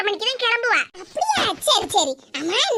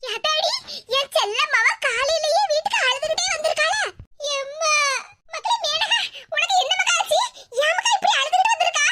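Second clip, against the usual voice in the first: alarmed wail; 4 semitones higher than usual. Acted. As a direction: cry out in alarm over your child. Mother sees daughter arrive crying.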